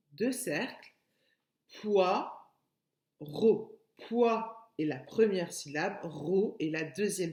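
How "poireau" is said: "Poireau" as two detached, louder syllables. Shown as a demonstration. Teacher marking two circles for pupils, "Poireau" in separate beats. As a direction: pause between poi and reau in "Poireau". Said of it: "deux syllabes".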